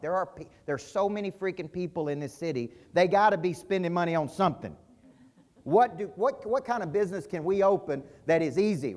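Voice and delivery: rising exasperation, retelling a rant; frustrated rant. Retold or imitated. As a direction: vent like it's all piling up. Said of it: "I am so mad".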